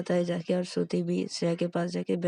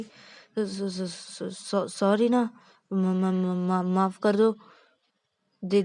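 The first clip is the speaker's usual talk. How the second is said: nervous stammer; 3 semitones higher, 4 dB louder than usual. Acted. Caught husband stammers apology.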